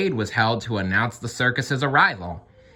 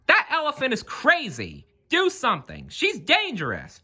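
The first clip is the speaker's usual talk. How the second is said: very high, frantic shouting; panicked crowd. A narrator's reading. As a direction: cry out in alarm at the wild elephant. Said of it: "shouted the bystanders".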